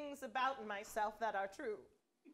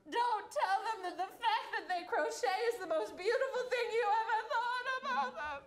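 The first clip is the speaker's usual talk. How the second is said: tearful sing-song; 8 semitones higher, 3 dB louder than usual. Acted. Tearful plea about the show.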